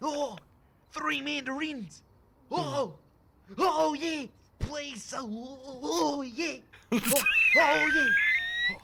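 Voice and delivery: loud ecstatic whoops; yelling with joy over the win; excited. Acted.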